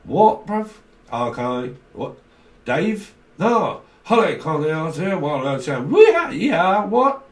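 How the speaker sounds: hammed-up southern accent, leaping up into loud whoops; southern drawl. Reader plays a southerner calling to Dave, mock southern drawl. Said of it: "Someone's got a southern drawl accent".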